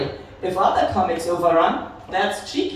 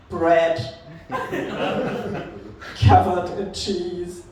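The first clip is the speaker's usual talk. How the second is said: slow, heavy mock confession; deadpan confession; 2 semitones lower, slower than usual. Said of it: "I have to be like".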